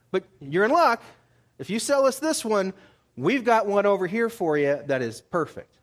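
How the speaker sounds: lightly voiced huckster talking up a deal; mock sales pitch. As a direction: pitch it high and loud, like a deal on offer. Priest pitching a replacement animal.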